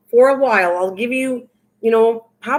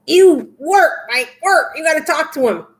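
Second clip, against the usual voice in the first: mock taskmaster; 5 semitones higher than usual. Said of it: "take the lash out and go".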